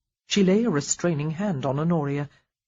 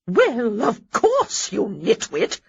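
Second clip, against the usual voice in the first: loud, sharp dowager bark; 4 semitones higher, 4 dB louder, slower than usual. A narrator's reading. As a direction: scold her briskly. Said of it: "Lady Danbury barked".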